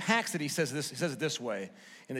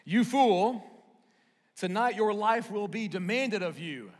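higher and louder, a booming verdict; God's stern rebuke of the rich fool; 6 semitones higher, 4 dB louder than usual. Retold or imitated. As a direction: pronounce the judgment on the fool. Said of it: "He says".

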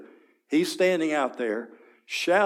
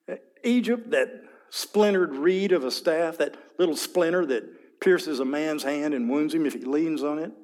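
scornful envoy; 3 semitones higher than usual. Acted. Envoy mocks Egypt's weakness.

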